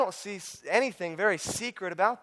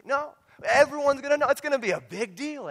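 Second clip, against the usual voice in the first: loud proclamation; 10 semitones higher, 3 dB louder than usual. Real, not acted. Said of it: "loud answer after whisper".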